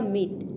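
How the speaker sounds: मीट with a long ee and a hard t; मीट, long ee, crisp final t; word demo. Shown as a demonstration. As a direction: stretch the ee in मीट. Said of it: "double ई का होगा ई".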